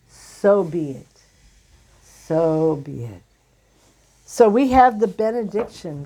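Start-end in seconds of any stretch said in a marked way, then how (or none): 0.1-3.2 slow, understated blissful pronouncement, settling lower; blissful blessing. Retold or imitated. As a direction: voice a deity's blessing gently and unhurriedly. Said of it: "He blissfully says".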